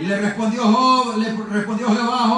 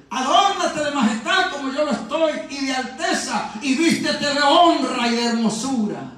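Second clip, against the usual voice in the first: raised, measured scripture proclamation; solemn declamation; 5 semitones higher than usual. Acted. Preacher voicing God challenging Job, solemn declamation. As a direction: proclaim each phrase with weight.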